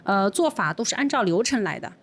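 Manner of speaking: imitating a server's textbook explanation; lightly voiced standard customer-service reply; by-the-book server. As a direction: recite company procedure politely, phrase by phrase. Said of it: "服务员就很标准地跟我说".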